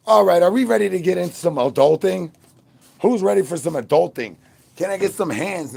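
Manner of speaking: loud, high hype call to the chat; hype announcer. Acted. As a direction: pump up the crowd for the adult segment. Hyping up the stream chat.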